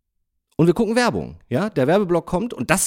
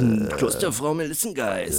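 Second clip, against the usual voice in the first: deep sonorous ad announcer; 2 semitones lower than usual. Retold or imitated. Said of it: "diese männlichen, tiefen, be-, sonorigen".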